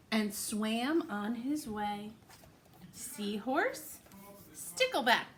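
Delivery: lively, sing-song storybook reading; picture-book read-aloud voice; reading to children. Acted. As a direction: read it to little ones with big rises.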